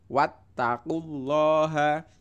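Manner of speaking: teacher demonstrating a doubled letter; stressed t. Shown as a demonstration. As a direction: press the tt in wattaqullaha. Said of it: "Taknya ditekan".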